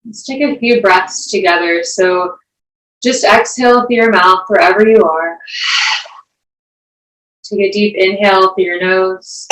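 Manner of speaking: unhurried meditation teacher, long pauses between phrases; guided meditation. Acted. Yoga teacher guiding the class into breath and grounding, guided meditation. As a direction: guide them through each breath, leaving space.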